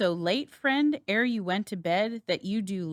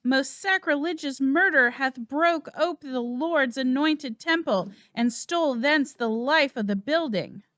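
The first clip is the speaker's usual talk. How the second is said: raised, higher, agitated announcement; urgent alarm; 5 semitones higher than usual. Acted. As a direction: sound the alarm of the murder. Macduff announces the king's murder.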